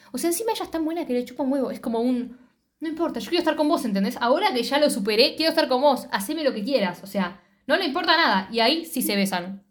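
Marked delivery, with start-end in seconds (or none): 2.8-7.0 eager quote. Retold or imitated. Quoting the eager character.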